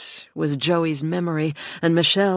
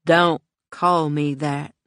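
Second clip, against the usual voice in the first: flat voice; slower than usual. Acted. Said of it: "she said in a flat voice".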